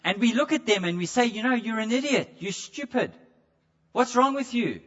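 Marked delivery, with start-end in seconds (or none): 1.3-4.8 higher-pitched contemptuous put-down; mock spiteful sneer; malicious scorn. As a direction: spit the insult at your brother. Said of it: "a maliciousness in our voice".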